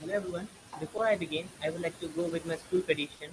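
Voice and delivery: very low, faint voice; speaking too softly to hear; barely audible. Real, not acted. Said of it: "Krish, your voice is very low".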